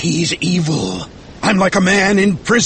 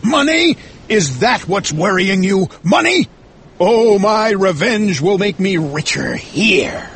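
very high, incredulous outburst; scornful cry; 7 semitones higher than usual. Acted. Ahab scorns Starbuck's money worries, crying out. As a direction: spit back the word, then declare passionately. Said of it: "cried Ahab, hitting his chest".

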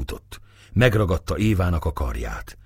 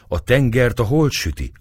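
worried; 7 semitones higher than usual. A narrator's reading. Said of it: "aggodalmaskodott a leány".

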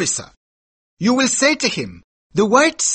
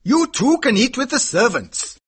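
high-pitched, forceful character voice; shouted dismissal; 13 semitones higher, 3 dB louder than usual. Acted. Horse dealer sending the boy to his servants, shouted dismissal. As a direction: wave him away in a high, raised voice. Mahbub loudly dismisses begging Kim.

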